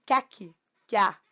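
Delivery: "que aqui" merged into "quiaqui"; vowels run together. Shown as a demonstration. Teacher demonstrating elision, joining "que aqui" into one sound. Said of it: "É como se você falasse".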